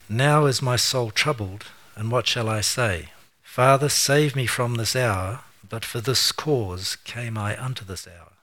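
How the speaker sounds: slow, weighty reading of the verses; solemn scripture reading. Acted. Preacher to congregation, reading Jesus' words slowly and solemnly. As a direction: lean into each line like holy writ.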